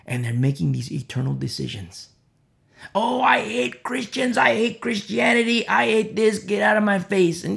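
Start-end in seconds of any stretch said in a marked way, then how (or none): 2.9-7.4 lightly acted scorn, a hint of a raised voice; mock hostile atheist. Preacher mimicking an atheist telling him to back off, mock hostile.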